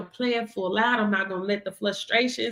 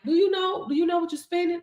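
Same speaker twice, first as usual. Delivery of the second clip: husband's alarmed question; 6 semitones higher, faster than usual. Retold or imitated. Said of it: "My husband like".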